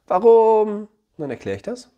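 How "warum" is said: put-on high, loud whiny "Warum?" of a child; mock whiny child. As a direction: squeal "Warum?" like a kid begging. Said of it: "child asks back". (quengelnd wie ein Kind)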